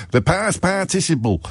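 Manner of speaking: lightly imitating a Yorkshire French teacher saying "The past participle"; a hint of a Yorkshire teacher, "The past participle" drawn out slowly; mock Yorkshire schoolmaster, "The past participle" said slowly; Yorkshire teacher imitation. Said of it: "used to talk all the time about the past participle".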